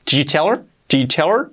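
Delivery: "Did you tell her" reduced to "chi teler"; did nearly omitted. Shown as a demonstration. Teacher showing the shortest form, did nearly omitted. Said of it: "se queda el chi".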